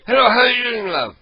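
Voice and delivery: chummy fake caller hamming up the greeting; prank caller persona. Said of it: "Ed Rosenthal".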